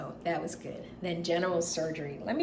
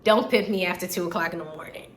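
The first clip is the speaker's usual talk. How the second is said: laughing plea; 3 semitones higher, 6 dB louder than usual. Retold or imitated. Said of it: "I was like".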